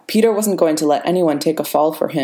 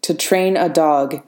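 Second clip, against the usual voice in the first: unyielding; slower than usual. Acted. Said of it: "thread of unyielding vibranium".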